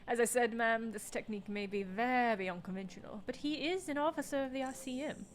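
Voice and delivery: lightly put-on British lady's accent. Officer vouching for colleague to ma'am, British lady's accent. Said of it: "doing the British lady's accent for Kim".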